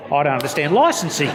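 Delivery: says "I don't understand licensing" slowly and deliberately, each word spelled out with a laugh; slow it right down, as if to a child; mock slow repeat. Shown as a demonstration. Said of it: "I'll say it again for you slowly".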